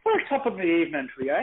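a quick teasing stab at an Irish brogue; a hint of a Saint Patrick's Day Irish accent; Irish lilt. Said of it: "speak with a little bit of the Irish lilt".

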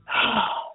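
real breathy exhale, winded; catching breath with a sigh. Real, not acted. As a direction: let out a puffed sigh. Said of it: "I am out of breath because".

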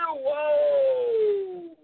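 surprised whoa. Real, not acted. Surprised exclamation.

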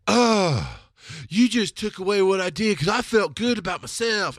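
high, loud redneck whine of feeling wronged. Retold or imitated. Podcaster voicing their own hurt inner thoughts, redneck voice. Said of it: "I do this redneck voice".

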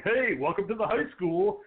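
high, slow mock cool-guy intro; cool guy drawl. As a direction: lay it on, slow and smug. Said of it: "Max ... going".

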